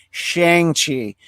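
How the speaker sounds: Shang-Chi said as SHANG-chee, rhyming with hang; common mispronunciation. Shown as a demonstration. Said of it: "we're not all saying".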